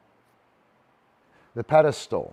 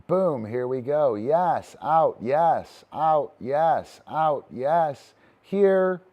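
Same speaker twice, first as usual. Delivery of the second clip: lively calls of yes and out, louder; excited dog cheer; 3 semitones higher, 4 dB louder, slower than usual. Real, not acted. Trainer cheering his dog through reps, excited. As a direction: hype the dog up with each rep.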